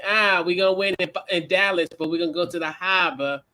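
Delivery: imitation Celtics fan in Boston accent; light mock Boston accent. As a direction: play a Boston fan, dropping the R's. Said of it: "I like that accent, that Boston accent".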